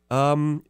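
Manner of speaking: heavy weary sigh; big sigh before answering; dramatic sigh. Real, not acted. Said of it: "He sighs heavily before that".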